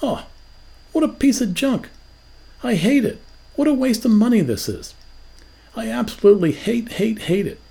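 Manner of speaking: high, mock disgusted griping; hammed-up ungrateful complaining; ungrateful scorn. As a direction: sneer at the gift like a spoiled brat. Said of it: "did you say something like this".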